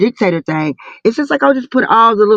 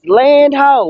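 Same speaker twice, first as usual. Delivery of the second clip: slow pirate call; 5 semitones higher, 4 dB louder than usual. Pretend. Playful pirate talk, stretched.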